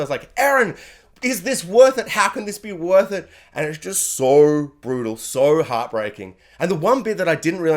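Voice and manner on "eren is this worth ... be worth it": mock anguished scream. Heartbroken dad calling to his son, mock anguished scream. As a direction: imitate a heartbroken father crying out. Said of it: "he's just screaming into the ether".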